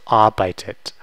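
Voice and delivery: arbeitet with a vowel before the last T; added vowel sound. Shown as a demonstration. Teacher showing the easier form, arbeitet with vowel between Ts. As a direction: sound out arbeitet slowly, ending in "tet". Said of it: "putting a, a vowel sound in between".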